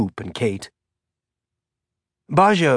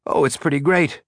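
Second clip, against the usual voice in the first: forced enthusiasm; 4 semitones higher than usual. A narrator's reading. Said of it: "Baja said with forced enthusiasm".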